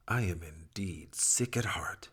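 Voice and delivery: a hushed, voiceless whisper. Acted. Abraham whispering to his people that he is sick. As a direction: breathe it out as a private confession.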